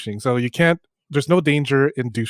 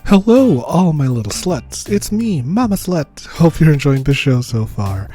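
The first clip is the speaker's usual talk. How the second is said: Mama Slut persona selling with relish; flirty, deliberate podcast promo; campy ad read; 2 semitones lower than usual. Pretend.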